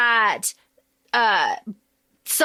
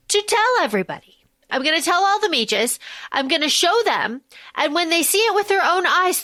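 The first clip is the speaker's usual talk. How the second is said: earnest Siona; 3 semitones higher than usual. Retold or imitated. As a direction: pitch her plan eagerly in a slightly raised voice. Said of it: "Siona goes and she says".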